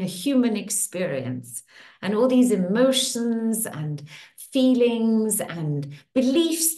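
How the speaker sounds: soothing tapping-session guide; guided affirmation. Acted. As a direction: speak each affirmation as a gentle promise.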